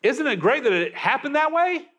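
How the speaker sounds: high, marvelling Australian TV host; excited Australian accent. Acted. Preacher mimicking a naturalist wowed by nature, excited Australian accent. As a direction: gush in mock Australian wonder. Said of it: "in that excited Australian accent".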